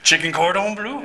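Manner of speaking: hammy French chef voice. Pretend. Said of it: "that's the extent of my French".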